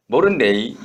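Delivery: Gyeongsang 모른대 이 with the 이 tacked on; 경상도 사투리 어미 "이"; Gyeongsang dialect. Shown as a demonstration. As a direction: stretch it out to that final 이. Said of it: "여기까지 가야 됩니다".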